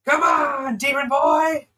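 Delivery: high, loud taunting yell down the hall; taunting shout. Acted. GM voicing a hunter calling for the demon, loud taunt. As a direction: call it out to bait him. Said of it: "you hear a voice go".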